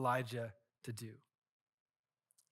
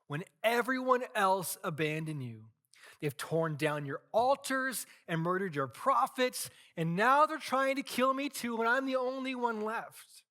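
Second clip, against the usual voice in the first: higher and louder, climbing to a cry; desperate outburst; 7 semitones higher, 5 dB louder than usual. Acted. Elijah pouring his heart out to God, rising to a desperate cry. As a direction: pour out the complaint until it breaks high.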